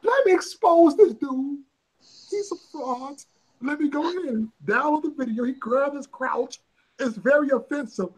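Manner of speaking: lightly mock an outraged internet troll; mocking a hater. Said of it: "I was serving the haters".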